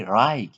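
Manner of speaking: wrong vowel in rike. Shown as a demonstration. Teacher demonstrating the wrong way, rike said with a long I. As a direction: rike with a long eye sound. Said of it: "Don't say".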